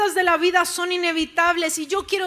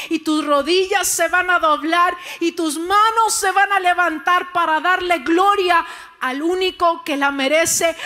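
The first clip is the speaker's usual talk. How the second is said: rising, louder preacher's call to praise; full-force preaching; 4 dB louder than usual. Acted. Pastor rousing the church to glory, full-force preaching. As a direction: build the congregation up to shout praise.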